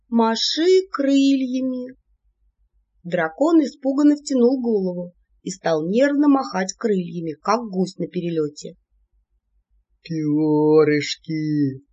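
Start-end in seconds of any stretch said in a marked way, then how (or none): 0.1-1.9 slow, drawn-out chanted shout; group shouting. A narrator's reading. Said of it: "стали кричать". 10.0-11.8 very slow, low drawn-out awe; enchanted wonder. A narrator's reading. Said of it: "зачарованный голос Алии".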